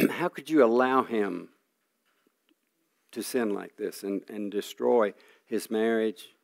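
a father pleading with God over his son's sin, retold; retold anguished prayer. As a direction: ask God why, half acted, voice lifted and pained. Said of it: "I kept crying out to God".

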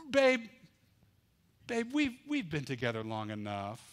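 coaxing Delilah. Acted.

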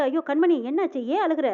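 mildly voiced panicked concern; flustered worry. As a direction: rush in worried, voice lifted. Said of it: "பதறி போய் ஓடி வந்து".

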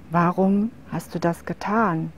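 soft, flat-drained question; toneless. Acted. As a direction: ask it emptied of all feeling. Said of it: "fragte sie tonlos".

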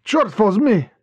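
a lightly voiced hurried oath; muttered curse. A narrator's reading. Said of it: "and cursed".

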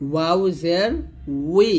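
উই begun with both lips rounded; rounded-lip waw. Shown as a demonstration. Teacher showing waw zer, rounded-lip উই. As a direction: glide from rounded lips into a long ee on উই. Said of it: "দুই ঠোঁট গোল করে".

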